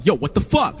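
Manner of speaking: a hint of put-on street talk; outraged label guy. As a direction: lightly imitate an indignant caller. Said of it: "He's a white dude who acts black".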